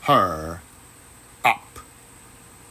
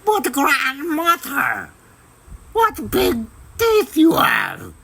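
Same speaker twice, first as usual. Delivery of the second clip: put-on much higher girl voice with a slight quiver; slightly quivering voice; 13 semitones higher, 3 dB louder than usual. A narrator's reading. Girl faces the wolf in bed, voice slightly quivering. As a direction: let a little fear creep into the girl's voice. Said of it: "her voice quivering slightly".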